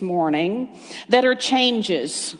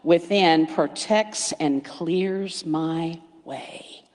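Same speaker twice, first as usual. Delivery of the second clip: slow affirmation; 2 semitones lower, much slower than usual. Shown as a demonstration. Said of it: "affirm something with me".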